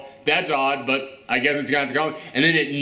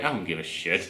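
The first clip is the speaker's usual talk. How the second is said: laughing dismissal; 9 semitones lower, 8 dB quieter than usual. Retold or imitated. Retelling own bored reaction.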